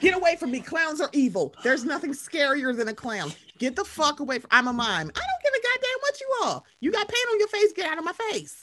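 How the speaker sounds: hammed-up outrage at a clown, pitch climbing to a yell; mock furious telling-off. Fear of clowns, telling mime off.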